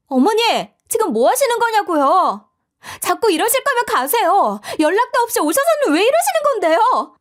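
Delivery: high-pitched, mounting outrage; angry daughter-in-law. Acted. 시어머니에게 화내는 며느리. (언성 높여 따지는 며느리)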